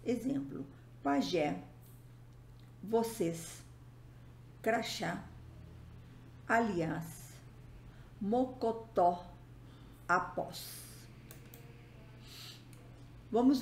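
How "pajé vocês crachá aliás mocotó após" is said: "pajé", "vocês", "crachá", "aliás", "mocotó", "após", each landing on its final vowel; word by word, final syllable of "pajé" to "após" stressed; stress on last syllable. Shown as a demonstration. Teacher listing accented oxytone examples, last syllable stressed. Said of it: "com sílaba tônica".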